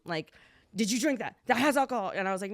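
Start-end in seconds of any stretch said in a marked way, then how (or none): 0.8-2.1 motherly check. Retold or imitated. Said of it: "She's like the mom".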